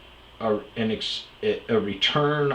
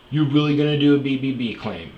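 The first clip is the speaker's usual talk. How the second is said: incredulous employee; 7 semitones higher, 8 dB louder, faster than usual. Retold or imitated. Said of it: "And he goes".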